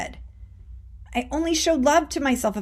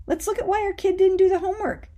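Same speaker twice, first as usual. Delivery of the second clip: a gentle, higher, encouraging self-talk demo; kind coaching voice; 7 semitones higher than usual. Shown as a demonstration. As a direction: coax yourself kindly, like a patient coach. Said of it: "let's look at that kindly".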